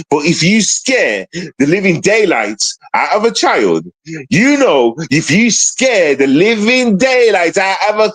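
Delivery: slow, heavily measured anger; angry, stretching out the words; getting angry. Real, not acted. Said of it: "I'm getting angry right now".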